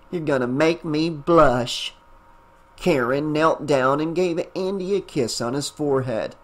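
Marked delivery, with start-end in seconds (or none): 0.1-1.9 lightly put-on, hokey Southern accent; bad Southern accent. Aunt joking after her friend's praise, mild fake Southern accent. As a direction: lay on a mock Southern twang, lightly. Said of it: "said in a bad Southern accent".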